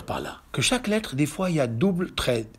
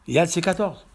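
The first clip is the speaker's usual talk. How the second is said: usual speaking voice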